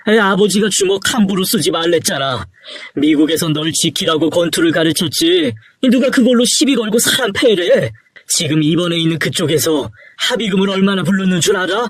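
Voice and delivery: mild angry reproach; scolding father. Acted. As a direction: scold a son who has messed up. Father scolding son over fight.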